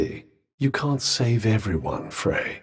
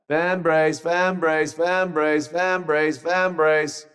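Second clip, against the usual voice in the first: same sing-song tune on every repeat; pestering repetition; 3 semitones higher, slower than usual. Acted. Repeating it to drive you half mad, pestering. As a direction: needle them by chanting it evenly. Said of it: "if I keep repeating it".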